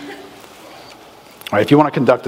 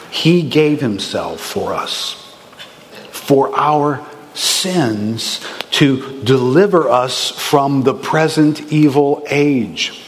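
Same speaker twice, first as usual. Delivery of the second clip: slow, solemn scripture read; much slower than usual. Acted. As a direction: read it slowly and reverently. Quoting scripture slowly.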